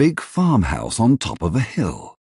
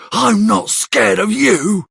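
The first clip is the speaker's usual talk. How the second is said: high, slow, brave challenge; defiant; 13 semitones higher, slower than usual. Acted. Charlie defies Bill, high slow defiant voice. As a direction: show him you won't back down. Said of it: "shouts Charlie".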